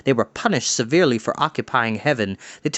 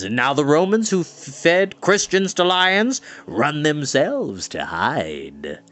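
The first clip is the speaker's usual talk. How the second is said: insulted Mountrout. Acted.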